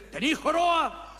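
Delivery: slow eerie ghost asking. Acted. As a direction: loom over him like a ghost. Ghost questions the hunchback.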